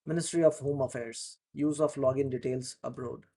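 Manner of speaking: careful, clear reading of a news article; news read-aloud. Shown as a demonstration. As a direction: read it out slowly so students can follow. Reads article aloud for practice.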